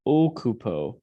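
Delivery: OH-coo-po, round O to begin; careful Latin Occupo with pure vowels. Shown as a demonstration. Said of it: "not occupo".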